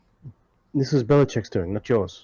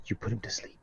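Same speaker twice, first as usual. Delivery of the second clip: whispering; 13 dB quieter than usual. Acted. Comforting the grieving companion.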